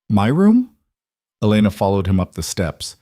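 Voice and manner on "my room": startled question. A narrator's reading. Elena shocked at separate room.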